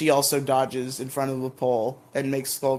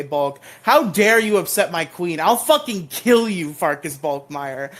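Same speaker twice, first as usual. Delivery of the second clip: mock fury; 2 semitones higher than usual. Mock rage defending Kimberly.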